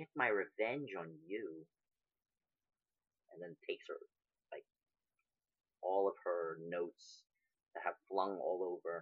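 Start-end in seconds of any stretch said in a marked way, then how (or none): 0.0-1.7 muttered under breath, quieter, slower. Gathering her papers, she speaks so only you can hear, muttered under her breath. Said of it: "under her breath, so that only you can hear".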